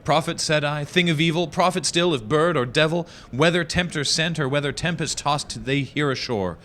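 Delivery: high, pleading declamation; hammy stage actor. Acted. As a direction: beg the raven in full melodrama. Impassioned pleading to the raven.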